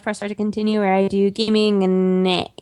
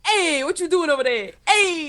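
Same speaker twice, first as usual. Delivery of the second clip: higher, laughing mock Boston accent; bad Boston accent; 6 semitones higher than usual. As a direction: ham up a Boston guy calling out. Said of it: "We have the worst Boston accents".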